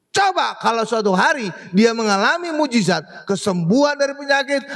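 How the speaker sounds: normal talking voice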